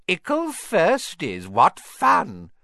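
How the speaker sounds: high, slow, taunting ghost voice ending loud; cackling poltergeist. A narrator's reading. Peeves mocking the new first years, high taunting voice. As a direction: taunt them like a gleeful imp. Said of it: "with an evil cackle".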